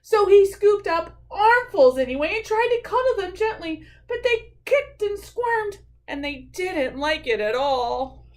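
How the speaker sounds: lively storytime reading; animated story narration. A narrator's reading. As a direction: tell the mishap to young listeners. Reads a picture book aloud.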